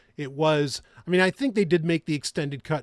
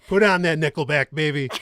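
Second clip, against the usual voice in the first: hyped-up shout; 7 dB louder than usual. Pretend. Joking about military rock.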